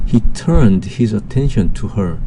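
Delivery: very slow, word by word English sentence; slow dictation reading. Shown as a demonstration. Teacher reading the first example sentence to students, very slow. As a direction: read it out slowly so students can follow.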